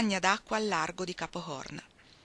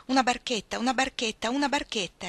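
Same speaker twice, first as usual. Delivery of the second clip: joyful repeating; 4 semitones higher, 3 dB louder than usual. Acted.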